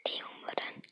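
chewing between words; talking while eating candy. Real, not acted. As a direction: mouth partly full. Seen 0: hand at lips after biting candy; mouth barely in frame.

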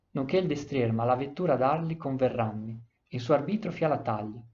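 put-on measured recital of old Italian verse; solemn epic recital; poem reading. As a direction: read the stanza like a poem, line by line. Reads the epic verse aloud.

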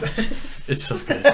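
breathy drawn-out whisper; slow whisper. Pretend. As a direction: whisper it slowly, teasing. Teasing friend after being mocked.

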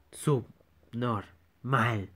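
slow dramatic drawl; drawn-out announcer. Acted. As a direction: stretch it out ominously. Dramatic slow title word.

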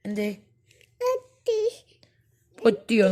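breathy whisper, falling at the end; whispered question. Real, not acted. Mother checking baby's hurt.

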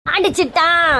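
short cry of outrage; stunned wail. Acted. Wife just hit by husband, first stunned wail. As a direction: cry out the accusation, last vowel held a little.

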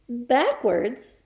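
a touch of nervous questioning; stammered. Acted. Boy questions the headmistress's order, mildly stammering. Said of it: "stammered Wilfred".

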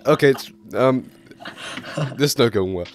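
put-on very high girly falsetto; man doing a woman's voice. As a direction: squeak it out like a girl. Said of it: "I need to do a girl voice".

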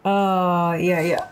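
stinging pain, wincing; real sting, half groaning. Real, not acted. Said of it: "perih banget".

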